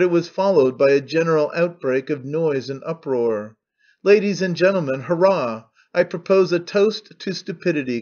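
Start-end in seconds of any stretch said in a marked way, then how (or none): 4.0-8.0 raised, higher defiant toast, hammed-up; frenzied cry. Old man defying the hostile audience with a frenzied cry. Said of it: "cried Stepan Trofimovitch".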